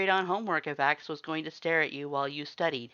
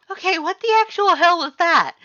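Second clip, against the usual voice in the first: shrill squeaky shout, much higher and louder; 16 dB louder than usual. Acted. Reader rattled after the shortcut, high squeaky shout. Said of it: "your voice high and squeaky".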